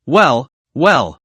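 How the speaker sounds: lightly voiced sneer continuing; mock well well. Driver keeps mocking the boastful passenger with sneering well well. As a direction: finish the put-down with each well falling.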